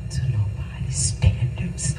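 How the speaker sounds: hushed whisper, barely voiced; whispered quote. Pastor quoting the Lord's reassurance to her, in a whisper. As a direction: let the divine words fall to a whisper.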